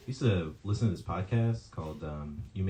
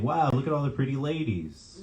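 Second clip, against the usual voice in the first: put-on excited child's exclamation, raised pitch, held in volume; mild mock yell; 6 semitones higher than usual. Poet voicing five-year-old date at pride parade, mild excited mock yell. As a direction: imitate a thrilled kid without really shouting. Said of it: "She was excited and yelling".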